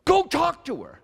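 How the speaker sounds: high-pitched mock panic, imitating his wife; breathless panic. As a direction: blurt it out in a squealed, hammed-up panic. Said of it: "out of breath and in a panic".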